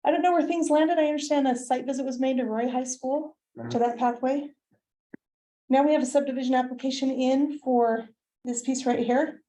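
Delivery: winded from running upstairs; slightly breathless talking; out of breath. Real, not acted. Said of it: "Sorry, I'm out of breath, I ran upstairs".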